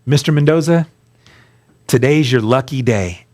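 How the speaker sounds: lightly voiced judge addressing the defendant; judge's formal address. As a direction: announce it like a judge with good news. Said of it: "this is how they talk".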